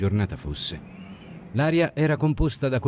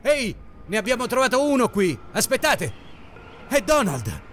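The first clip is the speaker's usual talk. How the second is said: very high, urgent distant calls; grido da lontano; 12 semitones higher than usual. A narrator's reading. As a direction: summon the others to an urgent find. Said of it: "Voci lontane sopraggiunsero poco dopo". (richiamo acutissimo e concitato, da lontano)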